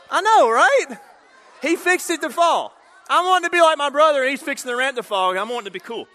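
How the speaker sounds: loud, high-pitched indignant protest; mock outrage. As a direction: cry it out like a betrayed kid. Mock outrage at the rigged ramp.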